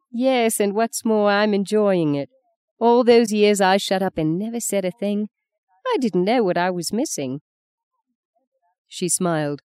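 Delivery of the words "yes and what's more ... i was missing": a touch higher, lightly voiced defiant Fee; understated relish in speaking up; sharp-tongued older woman.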